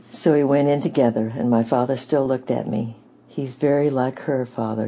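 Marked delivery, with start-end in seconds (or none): 3.3-4.9 husky and choked up; a hushed, husky catch in the throat. Acted. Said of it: "he said in a husky voice".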